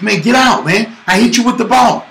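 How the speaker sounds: a kid's hammed-up playground yell; kid yelling in his face. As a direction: shout get out, in his face. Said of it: "he runs up in my face".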